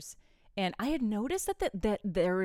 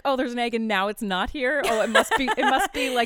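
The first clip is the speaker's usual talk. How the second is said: mock musing; 4 semitones higher, 7 dB louder than usual. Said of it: "Yeah, like".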